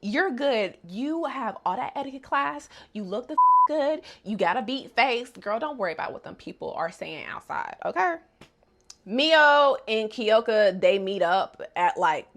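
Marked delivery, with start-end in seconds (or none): 0.0-8.2 put-on sassy girlfriend voice. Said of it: "Hazuki is like".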